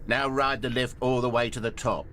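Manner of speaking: a playful little bucket urging him on. Acted. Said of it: "said the bucket".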